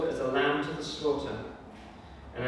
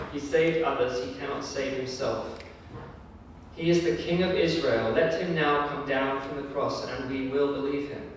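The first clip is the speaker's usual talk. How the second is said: scornful jeer, raised and louder on the king line; mocking; 3 dB louder than usual. Chief priests mocking Jesus on the cross, scornful jeer. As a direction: sneer it at the man on the cross. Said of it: "they said in a mocking way".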